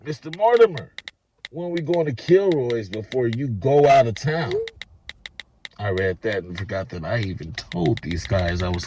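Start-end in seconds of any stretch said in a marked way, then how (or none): 0.0-4.5 lightly raised friendly voice; a touch of a buddy's voice; quoted text message. Retold or imitated. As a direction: read the friend's text a bit higher.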